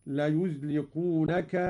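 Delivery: "ليزلقونك" with an open a on the first ي; Qalun reading. Shown as a demonstration. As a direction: recite "ليزلقونك" slowly as layazliqunaka. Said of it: "هكذا". (قراءة "ليزلقونك" بفتح الياء)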